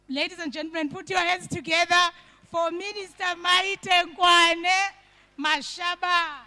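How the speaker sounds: grand entrance announcement. Real, not acted. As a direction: announce her like a headliner. MC introduces the minister.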